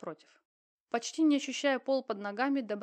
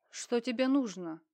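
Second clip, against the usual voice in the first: put-on slurred drunk mumble; 4 dB louder, slower than usual. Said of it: "заплетающимся языком пробормотал Ливанов".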